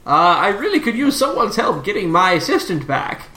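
lightly voiced professor steering the talk. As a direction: turn to business as a professor, lightly.

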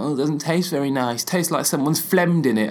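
mildly whingeing imitation; imitated grumble of complaint. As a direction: lightly mimic a fussy complainer. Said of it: "was whinging about it".

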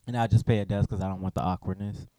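chewing chips as you speak; chewing while talking. Real, not acted. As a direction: talk round a mouthful of chips. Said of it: "I'm chewing these chips".

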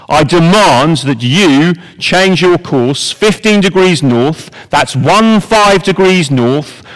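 a lightly played captain laying down his rank over the radio; pompous navy captain. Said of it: "The American voice says".

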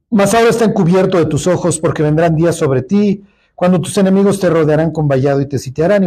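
measured, solemn Bible reading; scripture reading. Acted. Teacher reading Luke to the class, solemn reading voice.

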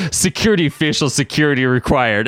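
sultry computer voice; Mister Sinister sexy voice. Acted. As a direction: purr it like a seductive villain. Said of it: "A sexy voice that sounded like Mister Sinister".

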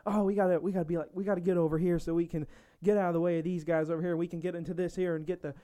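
lightly voiced southern grandma, narrating; mild Southern US granny imitation; southern grandma accent. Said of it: "turning into a southern grandma".

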